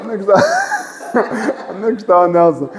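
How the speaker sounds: laughing mock search for someone; imitating puzzled audience. Teacher teasing the class about hunting for Nelson, laughing imitation. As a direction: mimic people looking around, laughing through it. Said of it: "o povo fica assim".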